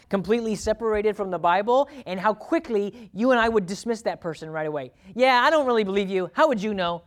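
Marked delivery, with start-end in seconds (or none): 5.1-7.0 louder, higher scoffing brush-off; mock dismissive. Listener scoffing at a self-appointed expert, loud and dismissive. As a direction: wave the speaker off, unconvinced. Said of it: "I'm just dismissing you entirely".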